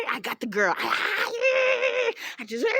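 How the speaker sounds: high laughing through the words; laughing hard. Real, not acted. Laughing while confessing she choked the girl.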